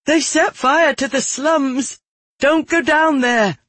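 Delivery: high, urgent shout; shouted warning. A narrator's reading. Woman in apron warns executioner off burning slums, urgent shout. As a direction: cry out to stop someone walking into danger. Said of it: "shouted at me".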